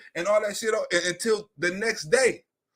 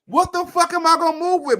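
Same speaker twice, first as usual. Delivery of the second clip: incredulous; 6 semitones higher, 6 dB louder than usual. Real, not acted. Mocking people who say move.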